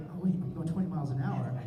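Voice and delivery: rising from flustered to loud panic; building panic. Retold or imitated. Driver panics at monster truck on his tail, rising panic. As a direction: work up from worry to alarm.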